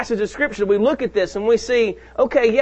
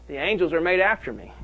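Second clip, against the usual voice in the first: lower, calm reply to the tempter; a hint of a calm, lower Jesus; Jesus answering; 4 semitones lower, 4 dB quieter than usual. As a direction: answer the tempter quietly and firmly. Preacher voices Jesus answering.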